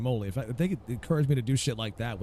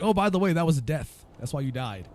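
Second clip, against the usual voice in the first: mock game voice; 5 semitones higher, 4 dB louder than usual. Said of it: "It's like".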